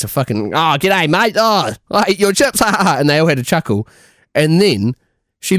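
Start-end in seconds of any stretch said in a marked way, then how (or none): 0.5-3.0 lightly exaggerated old Aussie voice; mock Australian accent. Old lady teasing about his chips, mock Australian accent. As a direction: send up an old Australian's cackling greeting. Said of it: "in a fucking way worse voice".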